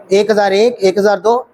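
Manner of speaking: steady, even one-thousand count; counting seconds. Shown as a demonstration. Instructor showing students the right way to count seconds. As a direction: count each second out evenly. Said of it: "तीन नहीं पढ़ेंगे".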